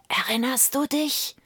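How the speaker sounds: a ghostly voice prodding the memory; eerie whispered reminder. A narrator's reading. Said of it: "flüsterte einer nach dem andern".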